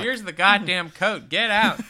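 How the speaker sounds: a hammed-up angry clerk; mock angry. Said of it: "And she's like".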